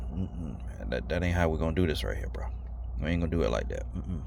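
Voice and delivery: whisper. Retold or imitated. Calm refusal to the screamer.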